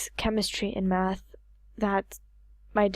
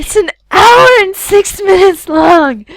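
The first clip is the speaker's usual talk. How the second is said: surprised; 10 semitones higher, 14 dB louder than usual. Real, not acted. Shocked by the recording length.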